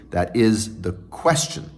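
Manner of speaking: slow "question", stressed on QUES; trochee stress. Shown as a demonstration. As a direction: land on QUES in "question", letting the second syllable fall. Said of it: "Actually, there's a trochee".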